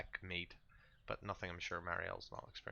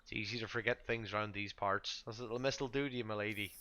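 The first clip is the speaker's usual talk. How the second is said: lightly voiced Vistani, easygoing and reassuring; a hint of an amiable camp host; chuckling Vistani; 3 semitones higher than usual. Vistani reassuring a forgetful lady visitor, lightly in character. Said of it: "sort of chuckles and says".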